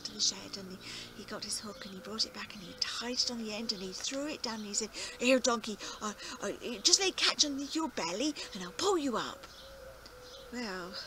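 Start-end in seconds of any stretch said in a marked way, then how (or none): 5.2-9.5 calling down. Acted. Farmer calling down the well.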